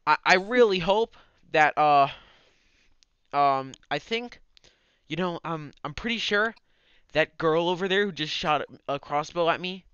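put-on loud, slurring overfriendly drunk; town drunk. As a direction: slur it like a chummy drunk. DM voices charming evil mage.

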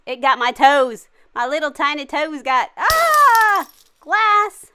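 high hammy crying shout; pained wail. Real, not acted. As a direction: wail like it hurts. Burned toes, crying shout.

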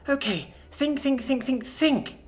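put-on high, repeated childlike urging; anxious self-urging. Child alone working out what to do, anxious self-urging. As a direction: repeat it like a child fighting panic. Panicking child urges herself.

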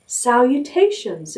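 small voice. Acted. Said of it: "a small voice".

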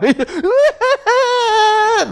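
very high, long mocking squeal. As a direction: let a piercing, drawn-out jeer rip. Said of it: "이번엔 더 커, 소리가".

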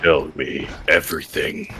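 slow, soft and sinister; creepy slow voice. Acted. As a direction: draw it out like a creepy interrogator. Creepy probing of a friend.

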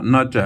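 ਨ ਚ as two distinct syllables, never ਨਚ; ਨ ਚ separated. Shown as a demonstration. Teacher correcting students to split ਨ ਚ apart. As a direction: say ਨ then ਚ with a clear break. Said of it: "ਨਚ ਨਹੀਂ ਬੋਲਣਾ".

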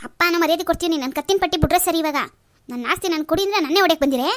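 loud furious protest at father; angry shout. Acted. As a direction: shout him down in rage. Son shouts at father in quarrel.

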